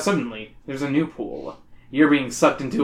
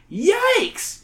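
shouting; 14 semitones higher than usual. Acted. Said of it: "you shout".

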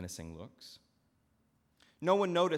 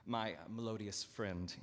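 cooing. Acted. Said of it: "he cooed".

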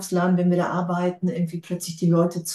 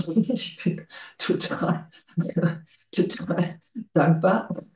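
laughing; slower than usual. Real, not acted. Laughing through thanks.

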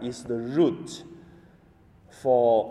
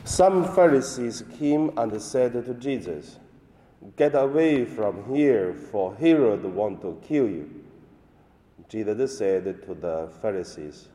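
solemn liturgical reading; Gospel reading. Acted. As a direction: proclaim the Gospel at Mass.

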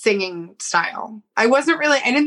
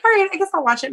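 reluctant higher voice; 10 semitones higher, much faster than usual. Retold or imitated. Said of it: "I was like".

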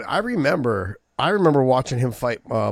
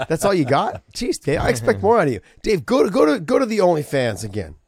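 playful teasing; 7 semitones higher, 5 dB louder than usual. Real, not acted. Teasing cohost demanding more.

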